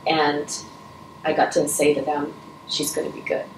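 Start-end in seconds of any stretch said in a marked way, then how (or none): 2.7-3.4 soft, breathy, tearful reassurance; choked up. Real, not acted. Telling refugee parents their baby will live, choked and soft. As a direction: barely get the words out, moved. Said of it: "I'm a little choked up".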